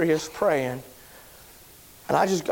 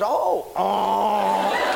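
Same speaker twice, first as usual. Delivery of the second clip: an "oh, oh" that breaks into a laugh; laughing surprised oh. Retold or imitated. Barber realizes Bob Jones.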